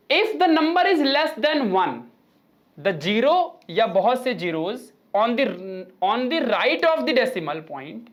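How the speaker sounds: slow, spaced-out textbook read-out; reading out a rule. Acted. Teacher giving students the third point, slow read-out. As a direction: read the rule slowly, phrase by phrase.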